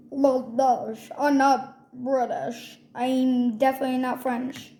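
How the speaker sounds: a kid's playful mock French accent, lightly put on; lightly faked French accent, said slowly in places. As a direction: goof around in a hammed-up French accent. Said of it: "I'm just acting like French accent".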